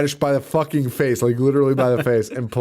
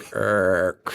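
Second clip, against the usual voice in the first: imitated slow stabbing; 4 semitones lower than usual. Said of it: "he stabs her so slowly".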